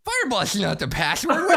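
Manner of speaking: spider-faced drow. Acted. Drow boss hears a wrong password, hissing and baffled. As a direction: hiss it in startled disbelief. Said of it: "the spider-faced drow is like".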